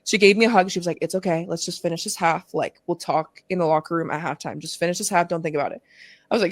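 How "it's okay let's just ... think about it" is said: softer, lightly acted comforting friend; soft reassurance. Friend consoling crying teammate in the huddle, gently reassuring. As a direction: settle her down softly and evenly.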